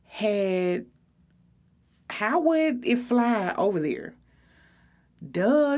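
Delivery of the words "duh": a high, scornful duh, louder; mock-patronising duh; condescending duh. A narrator's reading. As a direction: talk down to her like she's dumb. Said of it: "as if I was the dumbest person on earth".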